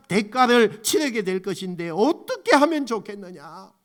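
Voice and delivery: loud, pleading cry of grief over Jerusalem; Jesus weeping and calling out to Jerusalem in anguish; tearful lament. Acted. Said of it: "탄식에 눈물을 보이기 시작했어요".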